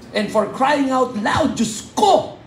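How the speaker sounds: high, exasperated wail of disbelief; exasperated cry. Real, not acted. Pastor to congregation, a high exasperated cry. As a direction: throw up your hands, Diyos ko.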